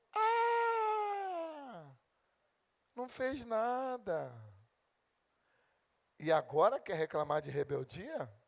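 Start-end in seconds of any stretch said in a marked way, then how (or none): 0.1-4.3 mocking. Mocking the listener's inaction.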